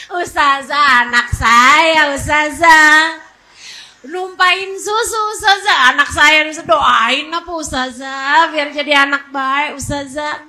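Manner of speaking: lightly mocked pleading parent; fawning parent. Parent caught by Ustazah asking for prayers, mock sweet. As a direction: drag out the appeals to the teacher.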